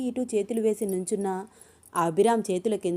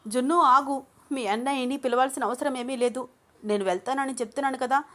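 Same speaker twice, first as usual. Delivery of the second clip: urgent plea; 5 semitones higher than usual. Acted. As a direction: stop her calling the brother. Anu stops Junnu urgently.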